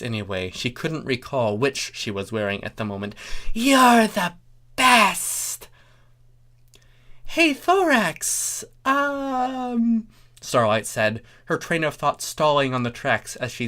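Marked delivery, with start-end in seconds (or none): 3.5-5.7 high, loud gushing cry; gushing joy. Acted. Chrysalis hugging Thorax. 7.2-10.1 put-on much higher, slow, hesitant girl voice; Starlight voice.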